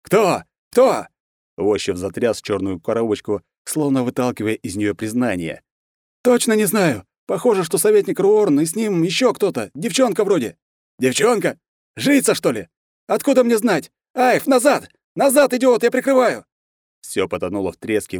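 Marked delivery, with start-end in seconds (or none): 0.0-1.1 high, loud repeated question; urgent demand. A narrator's reading. Colonel demands on radio. 6.2-16.4 high, loud, tense radio voice; shouting orders while firing; panicked soldier calling out in battle; soldier under fire. A narrator's reading.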